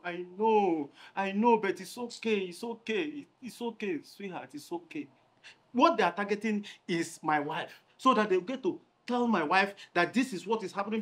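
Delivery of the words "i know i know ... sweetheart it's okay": soothing. Acted. Chief soothing angry woman.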